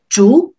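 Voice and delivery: 煮 said with a short rise in pitch; teacher's short rising-tone demo of 煮. Shown as a demonstration. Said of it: "raising tone, shorter".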